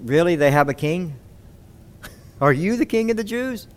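mock the idea of a Jewish king; laughing disdainful question; disdained surprise. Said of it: "in a very disdained, surprised, like".

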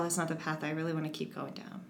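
hushed, quick whisper to herself. Retold or imitated. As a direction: whisper it like a private warning. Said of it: "I'm like".

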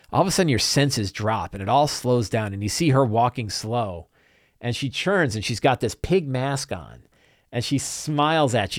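measured, suspenseful narration; game master scene setting. Acted. Game master describing a creepy masked girl, suspenseful. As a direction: draw out the eerie sighting.

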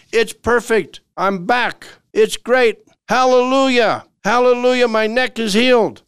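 gleeful praise, pitch soaring; overjoyed. Acted. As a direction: shout hallelujah like the pain just vanished. Day five, neck suddenly healed.

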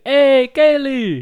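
put-on stereotypical Italian accent. Friend mocking the Italian family with a Brooklyn Italian accent. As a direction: ham up a New York Italian greeting. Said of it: "That's a little stereotypical".

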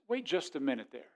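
a patient divine rebuke; God speaking gently. Acted. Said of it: "God says".

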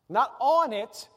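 slow, corrective weight on "on"; stress on ON. Shown as a demonstration. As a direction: lean hard on "on", drawn out slowly. Contrasts "on" with "in.

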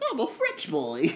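playful French-accented boast; a hint of a French accent. Shown as a demonstration. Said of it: "do any French accent".

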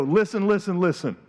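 loud, high, pleading with the whole room; a preacher shouting his plea to every listener; urgent pleading shout. Pretend. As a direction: grab them by the face and shout it home. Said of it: "Grab you by the face and go".

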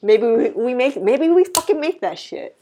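excited, pitch climbing high; real excitement, voice lifting; getting excited. Real, not acted. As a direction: get carried away by your own idea. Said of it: "Uh, you're getting excited".

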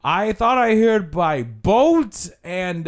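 high, slow mock guide; imitating a dragging lecturer fishing for answers; tour guide's delivery. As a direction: draw it out loftily. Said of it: "he's like".

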